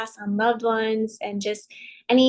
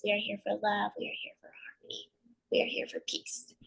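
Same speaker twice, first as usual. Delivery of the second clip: spoken affirmation. Acted. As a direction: recite affirmations gently, trailing into a hush. Spoken blessing before the meditation.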